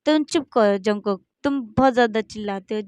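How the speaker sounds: loud, sharp telling-off; scolding. Acted. JK scolds Jungkook for shouting, loud scolding. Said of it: "Jungkook को डांटते बोलता है".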